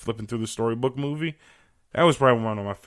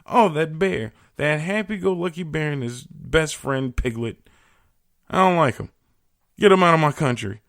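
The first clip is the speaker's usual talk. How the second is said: loud, higher-pitched mock indignation; mock outraged leader; 6 semitones higher, 6 dB louder than usual. Mocking China's leader banning Winnie the Pooh, loud mock outrage. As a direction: ham up a petty ruler who is offended by a cartoon bear. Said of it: "It's like".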